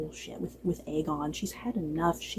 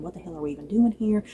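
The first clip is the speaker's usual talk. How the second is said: incredulous. Retold or imitated. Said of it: "Gwaine Hightower still just kind of wondering".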